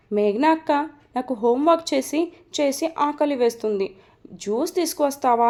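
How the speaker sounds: put-on sweet childlike wheedling; cutely coaxing. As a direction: coax cutely like a child begging for juice. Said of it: "ముద్దు ముద్దుగా".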